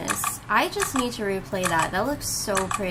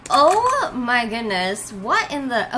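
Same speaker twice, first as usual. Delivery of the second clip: stunned; 3 semitones higher, 6 dB louder, slower than usual. Real, not acted. Reacting to Archon voice.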